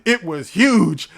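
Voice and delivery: big shouted huge; loud. Shown as a demonstration. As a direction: belt out huge. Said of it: "No, it wasn't huge".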